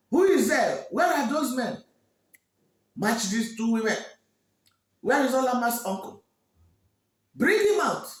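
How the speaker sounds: high, loud summons to his men; royal shout. Acted. King shouting for guards to seize the two women. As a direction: call out orders sharply.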